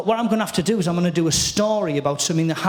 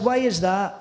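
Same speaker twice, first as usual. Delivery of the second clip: lightly mimicked Scottish comedian; cheeky, understated Scottish impression; Billy Connolly. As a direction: echo the Scottish comic's voice back at him. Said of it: "I spoke back to him in his voice".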